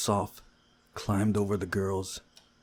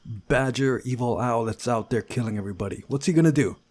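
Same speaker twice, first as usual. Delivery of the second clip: higher, louder urgent worry; worried pleading guy; 4 semitones higher, 6 dB louder than usual. Acted. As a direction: push the concern harder to the end.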